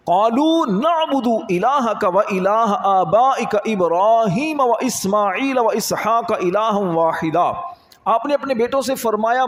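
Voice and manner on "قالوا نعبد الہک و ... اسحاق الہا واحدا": slow, measured Arabic recitation; Quran recitation. Acted. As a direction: stretch the long vowels as in reciting scripture. (آہستہ، کھینچ کر آیت کی تلاوت)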